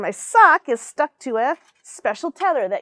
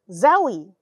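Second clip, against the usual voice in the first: excited exclamation; 7 dB louder than usual. Acted. Child exclaims at a smell.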